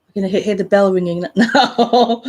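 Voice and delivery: amused, breaking into a laugh; laughing through the words. Real, not acted. Speaker joking to listeners about the cat's bell, laughing. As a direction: let a laugh burst in before the last word.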